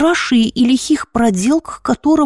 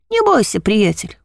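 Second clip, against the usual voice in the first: успокаивая; 2 semitones lower than usual. Acted. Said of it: "успокоил он меня".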